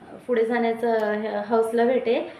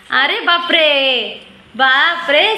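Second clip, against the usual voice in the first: slow, drawn-out playful gasp of wonder; mock amazement; 4 dB louder, much slower than usual. Mother to little daughter offering cake, hammed-up amazement. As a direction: pretend to be stunned, stretching it out.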